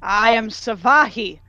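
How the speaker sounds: moderately pompous, stately delivery; pompous introduction. Acted. Warrior naming herself to the guards, pompous introduction. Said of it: "pompously than the first time".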